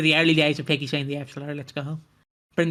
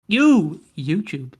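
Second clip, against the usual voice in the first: censored mock rage; 4 semitones higher, much slower than usual. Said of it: "I really wanna hear him rage".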